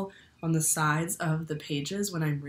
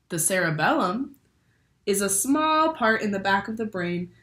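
bright, lively picture-book read-aloud; reading to children. A narrator's reading. Teacher reads a brain book to her class, lively storytelling. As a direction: read it like story time for little ones.

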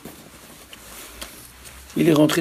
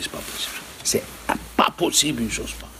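whispering; 7 dB quieter, faster than usual. Retold or imitated. Stunned man talks to himself.

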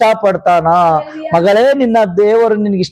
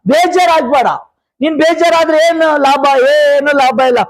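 raised, insistent sermon voice; fervent preaching; 6 semitones higher than usual. Real, not acted. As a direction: exhort the congregation in short, driving phrases.

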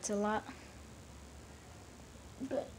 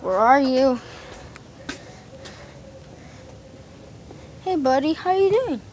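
dog greeting. Real, not acted.

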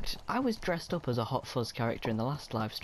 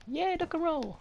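cheering. Real, not acted. Cheering a dodge.

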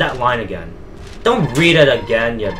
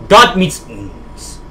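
raised, drawn-out fake German; mock German accent; 5 semitones higher, 6 dB louder, much slower than usual. Player attempting a German phrase he can't pronounce, exaggerated German accent. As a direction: stretch it into a loud, clumsy German accent. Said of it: "That offensive German".

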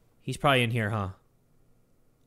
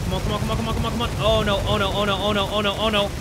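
rapid, higher-pitched repeated mumbling; tense, raised-pitch run of words; nervous pleading; 3 semitones higher, faster than usual. Real, not acted. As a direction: chant it anxiously under pressure. Urging under pressure.

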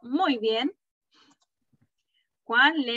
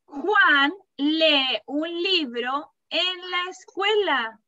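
slow read-aloud; 2 semitones higher, slower than usual. Shown as a demonstration. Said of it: "yo te estoy dando el nombre".

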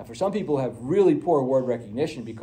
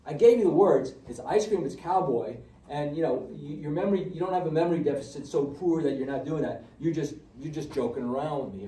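exasperated retort; 2 semitones higher than usual. Retold or imitated. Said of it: "what you wanna say is".

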